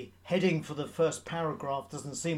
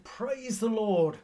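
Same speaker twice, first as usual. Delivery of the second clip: slow, high, stretched-out call of praise; loud praise; 6 semitones higher, slower than usual. Retold or imitated. Elderly lady on her porch calling to God, loud and slow. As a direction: lift it up loudly and drawn out. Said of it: "in a loud voice said".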